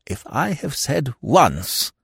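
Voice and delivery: slow, high-pitched complaint; exasperated. Acted. Lord back on his quarrel with McAllister, exasperated. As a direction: labour the point slowly.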